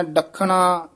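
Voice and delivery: ਡੱਖਣਾ with retroflex n, doubled kh; tight pronunciation. Shown as a demonstration. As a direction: curl the tongue for the n in ਡੱਖਣਾ. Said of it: "ਨੰਨੇ ਨਾਲ ਨਹੀਂ ਬੋਲਣਾ".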